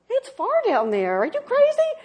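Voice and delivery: lightly voiced timid baby bird; a hint of a frightened chick; scared little eaglet. Eaglet refusing, voiced quote.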